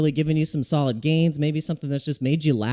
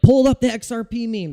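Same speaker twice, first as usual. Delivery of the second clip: higher, louder mock demand; imitating viewer; 8 semitones higher, 4 dB louder than usual. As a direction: mimic the viewer asking for XRP memes. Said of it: "You were like".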